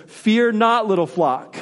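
emphatic call. Real, not acted. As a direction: call it out to the flock. Refrain raised in preaching.

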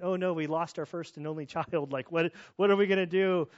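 frantic parents calling their lost daughter; panicked parent. Retold or imitated. Father reliving searching the house in a panic. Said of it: "running around the house kinda panicking".

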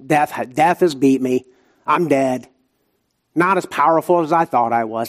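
ordinary talk

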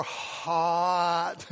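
loud, long drawn-out HOT; exaggeratedly slow. Father trying to make his toddler understand, exaggeratedly slow. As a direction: stretch the word as if for someone who can't understand. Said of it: "or if you say it slower".

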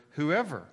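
"whoever" lifted and firmly stressed; single out the word "whoever" with emphasis. Shown as a demonstration. Pastor points out the key word, emphasis on "whoever". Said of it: "there was an emphasis on that word".

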